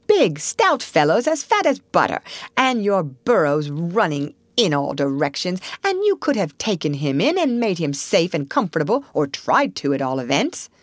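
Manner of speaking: emphatic, swooping reproach; indignant scolding. Acted. Otter scolds the rabbit for not helping, indignant. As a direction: lay into them, punching key words.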